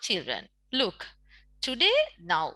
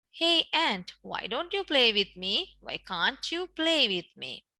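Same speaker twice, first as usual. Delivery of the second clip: grasshopper calling out; 2 semitones higher than usual. Acted. Teacher voices grasshopper again.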